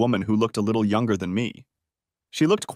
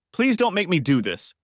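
higher, pleading plea through tears; a touch of tearful begging; begging, crying; 8 semitones higher than usual. Acted. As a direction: beg her not to make you do it. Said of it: "she begged, crying".

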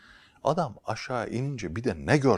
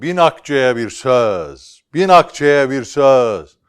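calling out; 5 semitones higher, 17 dB louder, much slower than usual. Acted. Seller calling out in market.

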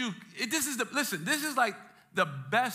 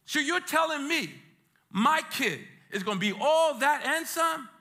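high, disbelieving delight; raised, incredulous question; amazed parent; 6 semitones higher, 3 dB louder than usual. Acted. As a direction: play a parent who can't believe it. Acts amazed parent hearing the news.

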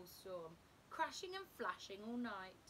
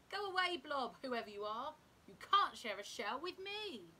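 grumpy crab; 3 semitones higher, 7 dB louder than usual. A narrator's reading. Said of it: "crab refusing the blob".

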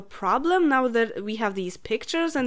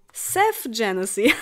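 laughing; 5 semitones higher than usual. Real, not acted. Laughs at new name.

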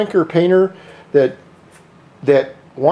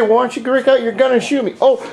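higher, jeering dare at the cop; mocking taunt; 7 semitones higher than usual. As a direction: taunt an imagined German policeman, pitched up and cocky. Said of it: "And then I say".

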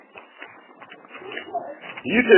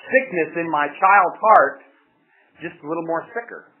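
tender fatherly voice; 4 dB quieter than usual. Retold or imitated. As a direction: speak it softly like a loving parent. Voicing God tenderly.

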